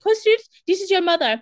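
high, loud, eerie spirit call; hammed-up ghost mother; ghostly mother voice. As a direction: moan it like a ghost coming through the radio. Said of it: "Which I love the idea of, like, coming through".

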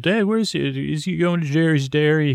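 a hint of a child yelling to his dad; kid yelling. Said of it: "one of the kids yelled".

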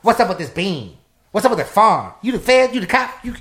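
loud, rising volley of suspicion; accusing interrogation. Retold or imitated. Companions suspect the narrator is a cop, loud and accusing. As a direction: fire accusing questions, pitch climbing high.

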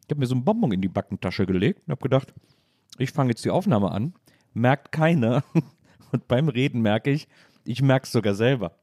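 talking around a candy in the cheek; words slurred by a lozenge; sucking a throat lozenge. Real, not acted. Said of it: "in dem der Moderator komisch spricht, weil er einen Bonbon im Mund hat".

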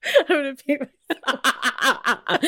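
slow words through laughter; laughing while talking. Real, not acted. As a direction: gasp it out mid-laugh. Laughing too hard.

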